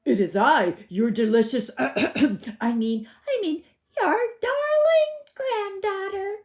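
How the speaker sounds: put-on wolf faking a sweet girl voice; wolf in a high voice. A narrator's reading. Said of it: "said the wolf in a high voice".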